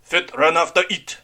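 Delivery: wounded man's comrade crying out; cried out. Acted. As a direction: call them back in alarm. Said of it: "Tan Lo cried".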